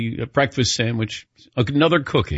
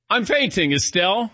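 fainting plea; 7 semitones higher than usual. Retold or imitated. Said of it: "I said".

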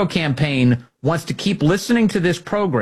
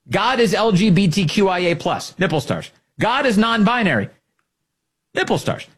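mock slogan; 6 semitones higher than usual.

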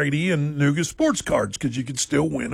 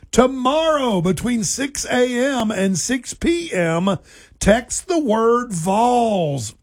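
announcer proclamation; 5 semitones higher than usual. Pretend. Mock proclamation of the contest.

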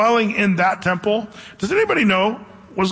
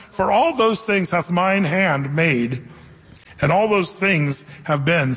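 scripture reading. Acted. Reads Isaiah sixty-six aloud.

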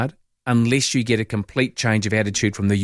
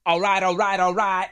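drawled, higher Texan McConaughey catchphrase; Matthew McConaughey impression; 9 semitones higher than usual. Host answers a texter with McConaughey's drawling catchphrase. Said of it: "you can do a Matthew McConaughey accent".

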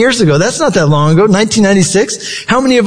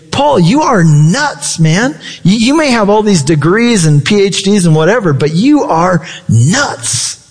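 scoffing governor; 3 semitones higher than usual. Retold or imitated. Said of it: "And he says, basically".

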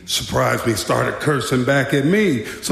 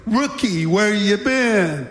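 lightly mocking veteran, pitched higher; sarcastic; 5 semitones higher, slower than usual. Veteran guard greets the returning rookie, sarcastically. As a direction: needle the new guy with a drawn-out question. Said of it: "he said sarcastically".

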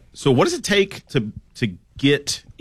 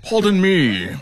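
high prim pardon me; overly polite waiter; polite server; 9 semitones higher, 3 dB louder, slower than usual. Pretend. Joins acted polite server bit.

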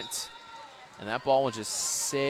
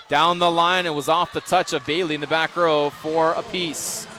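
loud call; 2 semitones higher, 4 dB louder than usual. Real, not acted. Big rally, raised call.

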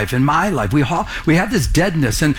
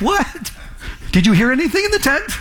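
stunned disbelief; 10 semitones higher than usual. Retold or imitated. Pastor stunned by stranger's answer.

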